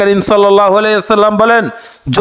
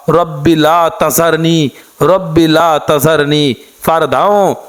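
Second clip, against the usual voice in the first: dua recitation; 2 semitones lower than usual. Acted. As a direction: draw each phrase out like a prayer.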